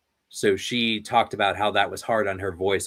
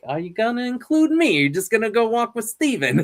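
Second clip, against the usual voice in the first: high-pitched imitation of a kid; put-on high kid voice; kid's cartoon voice; 12 semitones higher, 3 dB louder than usual. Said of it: "she learned to do the voice".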